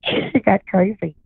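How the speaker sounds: laughing slowly through it; slow, laughing repeat. Real, not acted.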